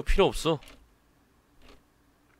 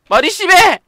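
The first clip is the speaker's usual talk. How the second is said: put-on hurt girl's cry; 14 dB louder than usual. Hurt girl protests.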